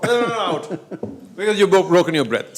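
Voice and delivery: high, rapid insistence through laughter; laughing mock referee. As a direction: overrule the player while cracking up.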